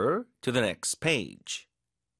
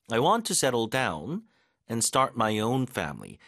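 very slow, split in two phrases; phrased model reading; much slower than usual. Shown as a demonstration. Teacher reading the sentence in two slow chunks. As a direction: pause after settle down, then finish. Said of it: "이렇게도 한다는 얘기예요".

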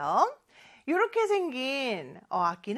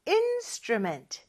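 slow clear word; 5 semitones higher, much slower than usual. Shown as a demonstration. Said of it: "instrument 라는 단어가 좀 길긴".

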